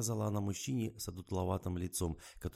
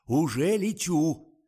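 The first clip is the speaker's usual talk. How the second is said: much higher, much louder, slow cry; frantic shout; 10 semitones higher, 13 dB louder, much slower than usual. Acted. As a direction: yell that you are on your way. Publicist frantic on phone.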